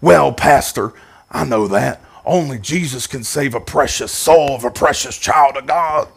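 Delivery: mock pious congregant; silly pious voice. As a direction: lightly put on a churchy, over-holy tone. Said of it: "I don't know why I'm talking like that".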